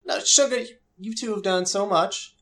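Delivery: high, sweet Southern host; high Southern hostess voice. Acted. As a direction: fuss kindly over the guests. GM voices the NPC.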